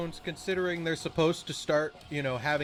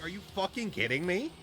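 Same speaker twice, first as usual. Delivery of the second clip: incredulous outburst; 5 semitones higher, faster than usual. Retold or imitated. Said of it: "I'm like".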